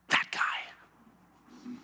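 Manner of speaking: hushed, pointed whisper; name the culprit in a dramatic whisper; whispered accusation. Retold or imitated. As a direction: Esther whispering to the king, accusing Haman. Esther accuses Haman.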